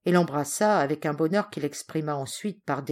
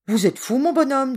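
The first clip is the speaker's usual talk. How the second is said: scornful servant; 8 semitones higher, 7 dB louder than usual. Acted. Servant rebuffs the stranger.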